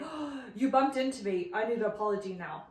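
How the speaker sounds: acted indignant demand with a gasp; lightly hammed-up offense; mock confrontation. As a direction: pretend to get in someone's face. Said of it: "go get in their face and say".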